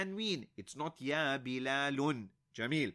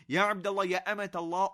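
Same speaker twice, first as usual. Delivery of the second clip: calling out; 3 semitones higher, 5 dB louder, faster than usual. Real, not acted. Teacher calling students.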